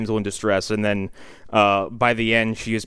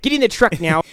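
put-on higher-pitched slipping Canadian accent; mock Canadian accent; 10 semitones higher than usual. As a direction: imitate a woman's rich Canadian accent. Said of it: "her rich Canadian accent".

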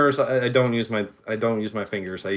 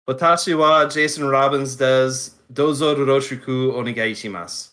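super polite Japanese. Shown as a demonstration. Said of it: "introduce myself very extremely super duper politely".

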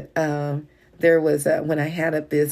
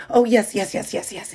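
high nervous yes, then breathy yeses; flustered eager agreeing; 5 semitones higher than usual. Retold or imitated. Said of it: "he nervously wrote out that check".

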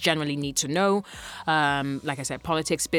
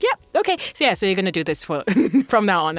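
high upbeat boss voice; 4 semitones higher, 4 dB louder, faster than usual. Retold or imitated. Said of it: "they're like".

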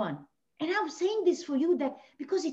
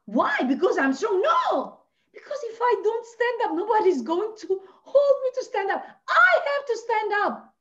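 rallying; 9 semitones higher, 4 dB louder than usual. Real, not acted. Rallying speech to women.

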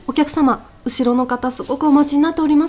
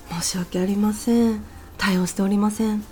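hushed apology; 2 semitones lower, 6 dB quieter than usual. Acted. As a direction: murmur the apology under the breath. 店員が再び小声で断る. (申し訳なさそうなささやき声で)

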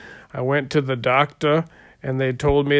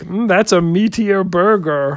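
Kermit the Frog voice; 4 semitones higher, 3 dB louder than usual. Acted. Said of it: "Kermit the Frog impression".

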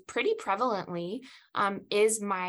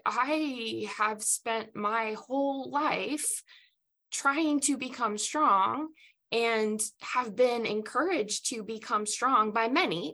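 slow, higher, near tears; tearful plea; 4 semitones higher than usual. Retold or imitated. Weeping before God, slow, raised and tearful. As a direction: plead slowly as if about to weep.

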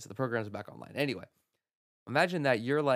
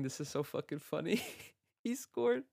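wheezing laughter through the words, pitch flying up; cracking up, barely getting it out; laughing hard; 7 semitones higher, 3 dB quieter than usual. Real, not acted. Caught laughing at the stats, talking through real laughter. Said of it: "I'm crying".

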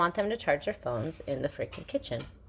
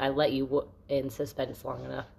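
laughing tease; 2 semitones lower than usual. Real, not acted. Laughs while teasing her story.

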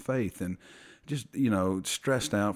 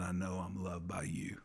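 whisper; 6 dB quieter than usual. Retold or imitated. Quoting son's whispered words.

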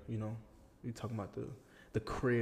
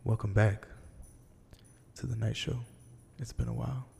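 whisper yelling; 6 dB louder than usual. Pretend. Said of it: "Why are you whispering?".

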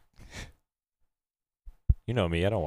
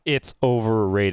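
"It's overrated" said slow and flat-out as fact; stress on It's; 2 semitones higher, 6 dB louder, slower than usual. Shown as a demonstration. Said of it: "the way you say things makes a big difference".

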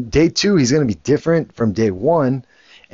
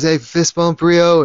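raised, sing-song baby talk, lightly imitated; a hint of an uncle cooing at a baby; parentese; 5 semitones higher, slower than usual. Uncle greeting the baby boy, lightly mimicked parentese. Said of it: "Cousin doesn't speak with the same parentese".

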